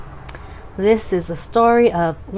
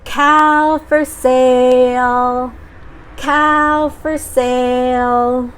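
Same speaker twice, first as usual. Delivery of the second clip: yelling out; 4 semitones higher, much slower than usual. Acted. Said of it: "he tried again".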